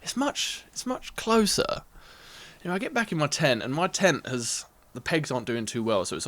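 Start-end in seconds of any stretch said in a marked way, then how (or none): 0.0-1.8 whispered fear. Retold or imitated. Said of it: "And I'm thinking".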